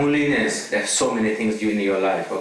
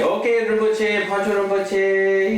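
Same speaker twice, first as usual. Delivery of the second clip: said nicely; 7 semitones higher, slower than usual. Retold or imitated. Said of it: "he calls me nicely".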